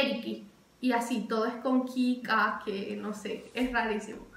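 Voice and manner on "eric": "Eriki" with an added final i; Brazilian pronunciation. Shown as a demonstration. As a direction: Eric said as "Eriki". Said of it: "aquí es".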